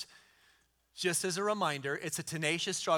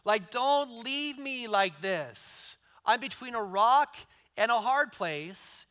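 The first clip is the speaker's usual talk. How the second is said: pleading Jacob; 4 semitones higher, slower than usual. Retold or imitated. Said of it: "this was what Jacob said".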